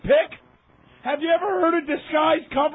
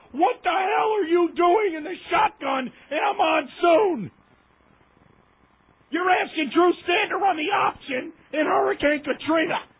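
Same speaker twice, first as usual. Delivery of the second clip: exasperated shouting, voice raised; angry rant; 3 semitones higher than usual. Real, not acted. Fan shouting at the coaching staff over play calls, angry. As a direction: yell it at the coach like he can hear you.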